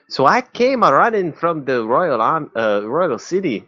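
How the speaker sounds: lightly voiced, eager old angler; a touch of a rustic fisherman; folksy fisherman. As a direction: ham up the fish tale with folksy glee. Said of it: "I'm gonna have fun with this".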